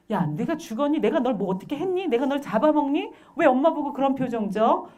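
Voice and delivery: indignant parent firing rhetorical questions; acted parental scolding. Parent to a crying child, scolding.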